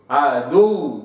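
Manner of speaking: عدو with the doubled waw and no lip rounding; waw without lip rounding. Shown as a demonstration. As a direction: repeat عدو with the lips unrounded. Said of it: "هكذا".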